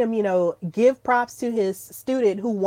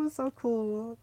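hushed repeat; 12 dB quieter than usual. Real, not acted.

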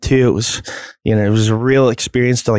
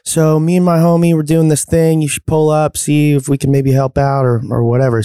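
friend's voice; 5 semitones higher than usual. Retold or imitated. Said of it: "She's like".

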